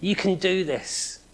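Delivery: rally a runner who's about to give up; lightly cheering on the runner; cheering crowd. Retold or imitated. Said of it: "who are saying".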